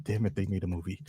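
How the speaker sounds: low, soft groan of defeat; mock dismay. Toy maker learning a movie was made, mock dismay. Voicing the company's dismayed reaction.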